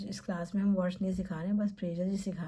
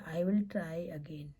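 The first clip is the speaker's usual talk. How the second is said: teacher telling students what to say after failing; slow model phrase; much slower than usual. Shown as a demonstration. Teacher modelling it slowly. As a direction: spell out each word slowly. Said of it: "आप कहेंगे".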